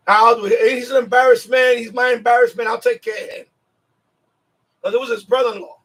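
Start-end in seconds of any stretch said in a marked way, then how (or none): 0.1-3.4 louder, mock tough gangster offer; Sammy the Bull. Sammy the Bull volunteering to Gotti, tough and louder. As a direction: take the job like a hard man. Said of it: "He's like".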